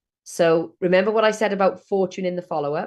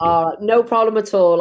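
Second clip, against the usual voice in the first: louder, projecting to the class; louder for a student who asked; speaking up on request; 3 semitones higher, 6 dB louder than usual. Real, not acted. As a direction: lift the volume so the back row hears. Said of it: "talk louder for sure".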